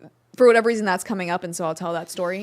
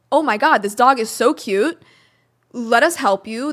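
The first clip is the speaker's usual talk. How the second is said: excited gushing; 3 semitones higher, 6 dB louder than usual. Retold or imitated. Hostel kids gush over puppy.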